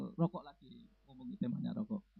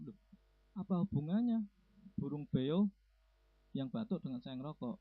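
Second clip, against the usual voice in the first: imitating a baffled friend, pitched up at first; puzzled surprise; 4 dB louder than usual. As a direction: ask it in mock bewilderment. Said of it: "Teman saya kan heran".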